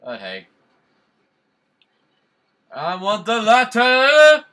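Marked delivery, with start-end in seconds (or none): 2.7-4.4 high, loud, slow bratty demand; demanding character voice. Pretend. Gamer playing a spoiled noble, high and loud. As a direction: whine it like a spoiled noble child.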